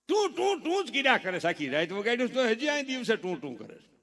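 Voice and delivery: loud nagging yell at the husband; hammed-up scolding wife, shouting; mock nagging. Mocking wife's nagging complaint. (ગુસ્સાવાળી પત્નીની નકલ, બૂમ પાડીને)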